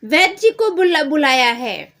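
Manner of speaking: loud, high hurried announcement; a mother rushing to say the doctor is called; urgent mother. Acted. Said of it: "उसकी mummy बोलती है". (जल्दी में घबराई माँ)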